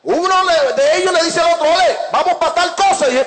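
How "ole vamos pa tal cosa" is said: lightly acted youngster calling a pal, pitched up; raised-pitch imitation of a lad rallying his friend; youngster's call. One youngster urging another to go along, lightly imitated youngster. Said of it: "Voy a hablar como los muchachos".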